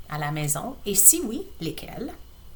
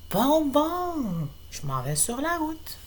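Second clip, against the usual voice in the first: muttered reply; 5 semitones higher, 7 dB quieter, slower than usual. Acted. Laurie answering her brother.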